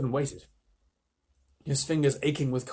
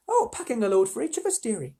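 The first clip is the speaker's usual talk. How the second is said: cool; 8 semitones higher than usual. Acted. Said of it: "said Missus Beaver very coolly".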